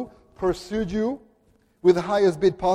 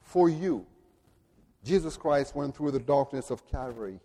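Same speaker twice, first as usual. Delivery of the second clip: solemn baptismal charge; 3 semitones lower, 5 dB quieter than usual. Retold or imitated. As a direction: speak it like a blessing over a child. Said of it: "This is what we say every time".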